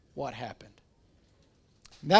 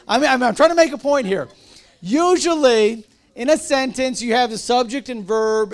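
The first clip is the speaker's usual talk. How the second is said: higher and louder, pressing the point; insistent teacher push; louder, emphatic; 4 semitones higher, 5 dB louder than usual. Real, not acted. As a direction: raise voice over the class. Teacher pushing point over laughter.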